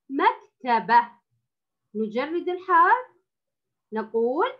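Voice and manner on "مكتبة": مكتبة repeated slowly; slow model reading. Shown as a demonstration. Teacher repeats the word for the pupil, slow. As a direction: read مكتبة again slowly. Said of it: "كلمة".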